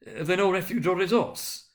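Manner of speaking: pleading cry. A narrator's reading. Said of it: "cried Scrooge".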